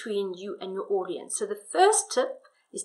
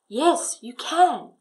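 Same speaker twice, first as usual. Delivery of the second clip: husband's voice; 4 semitones higher, 5 dB louder, much slower than usual. Shown as a demonstration. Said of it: "with the change in, in tone".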